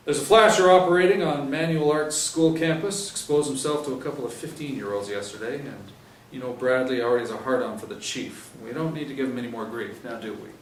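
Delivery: brief the squad like a stern sergeant; sergeant's briefing. Acted.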